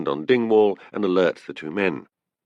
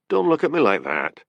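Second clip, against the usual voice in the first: higher, heated protest; a touch of indignation, pitch raised; 5 semitones higher than usual. A narrator's reading. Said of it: "said Annie hotly".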